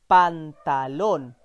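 slow, drawn out answer word; slow revealed answer. Shown as a demonstration. Teacher to child, slow revealed answer. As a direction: stretch the word for the learner.

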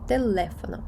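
Телефоно stressed on le; weight on the second syllable of Телефоно; stress as written. Shown as a demonstration. Teacher modelling reading by the accent, Телефоно stressed on le. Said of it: "вимовляємо слово так, як пишеться".

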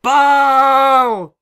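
very high, loud drawn-out yell. Acted. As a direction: howl the word like a mad dog. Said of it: "yelling for the ball".

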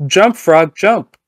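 loud, high command shout; yelling at the frog. Retold or imitated. Scientist yelling at frog to jump. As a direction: bark the order at the frog.

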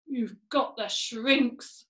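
slow, drawn-out pronouncement; ominous diagnosis. Acted. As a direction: deliver it slowly like dreadful news. Mr Twit's mock diagnosis.

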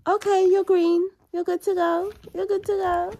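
playful announcer. Pretend.

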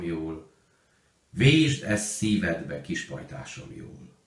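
put-on a child's song fading into muffled sobs; voice breaking with tears. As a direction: sing it again with the voice catching on tears. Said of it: "Sírásba csukló hangon énekelte újra".

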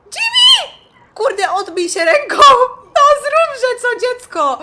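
very high, loud screaming with laughter; panicked scream at the game character; frantic scream. Real, not acted. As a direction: shriek at him frantically. Screaming at Jimmy.

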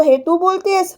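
shocked, rising question; mock disbelief at wife; surprised. (चकित होऊन विचारलेला प्रश्न)

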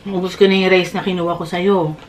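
chewing while talking; speaking between bites; mouth full. Real, not acted. Seen 1: Woman bites food before, talks with working jaw and full cheeks.

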